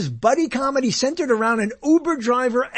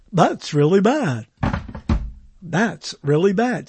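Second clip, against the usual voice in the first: low, deadpan announcer's verdict; deep mock radio cart voice; 3 semitones lower than usual. Shown as a demonstration. Radio host imitating his sound cart, low and deadpan. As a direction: play the old cart clip in a low voice. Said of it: "here, I'll do the".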